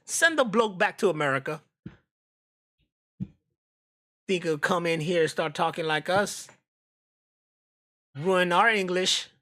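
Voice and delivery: lightly voiced grumpy Brit; mock British accent. Playing a British local mocking the American: light Cockney. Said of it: "your freaking British accent".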